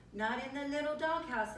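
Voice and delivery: exclaiming. A narrator's reading. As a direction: exclaim in mild storybook alarm. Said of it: "exclaimed Scapito".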